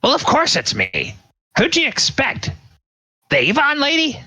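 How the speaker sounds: very high, exasperated wizard voice; impatient old mage. Acted. Old mage answering the dragon, impatient and sarcastic. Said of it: "he looks over at the dragon and he says".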